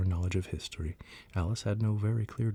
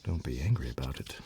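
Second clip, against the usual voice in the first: soothing; 5 semitones lower than usual. Acted. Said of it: "in a soothing tone".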